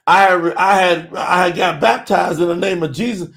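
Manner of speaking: mock the listener fumbling for an excuse; hesitant congregant. Preacher mocking listeners who claim they were already baptized, a lightly voiced stammer. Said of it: "some of y'all going".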